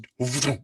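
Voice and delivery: short whooshing sound effect; imitated drop noise. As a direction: make the sound of something suddenly dropping. Imitates a bolt dropping.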